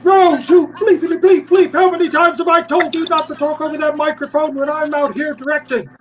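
high, loud furious director's yell; high-pitched angry shout over the microphone; screamed out. Retold or imitated. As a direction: scream it across the set at the puppeteer. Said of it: "Willard out on set screamed out".

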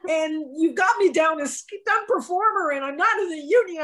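retelling a tearful confession to the director; teary. Retold or imitated. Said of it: "I'm getting teary".

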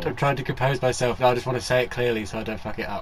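holding back laughter; fighting the giggles; stifled giggles. Real, not acted. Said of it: "I'm trying not to laugh".

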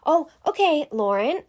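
imitated soothing, high-pitched "oh"; lightly acted calming voice; placating mom. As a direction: mimic humoring someone who's losing it. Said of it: "trying to calm me down".

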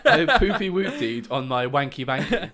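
barely holding in laughter; trying not to laugh. Pretend. Laughs right before, silly babble.

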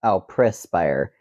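perspire said prih-spire, slowly; mock wrong way. Shown as a demonstration. Host mocking the wrong prih-spire. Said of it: "Is how you say it correctly".

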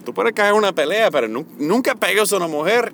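father's advice. Retold or imitated. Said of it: "mi papá siempre me enseñaba".

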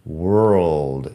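"world" with an uh, not an O; drawn-out "world", no O sound; "world" with uh vowel. Shown as a demonstration. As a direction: give "world" a central vowel before R-L-D. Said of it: "es E".

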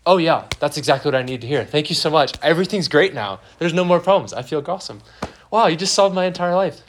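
overdone, gushing mock thanks; sarcastic gratitude. Worried person to dismissive friend, sarcastic gratitude. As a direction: gush it loudly, plainly not meaning it.

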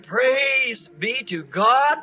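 slow devout thanksgiving, a touch hammed-up; rapturous praise. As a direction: savour each word like a man lost in worship. Convert praising God in the shop.

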